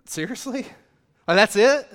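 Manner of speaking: incredulous seriously, then a loud that's it; disbelief. Retold or imitated. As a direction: let the letdown burst out. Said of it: "remember reading it and thinking".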